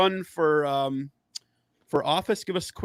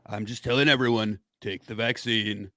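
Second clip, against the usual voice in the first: Trump impression; 5 semitones lower than usual. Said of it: "a real message from Donald Trump".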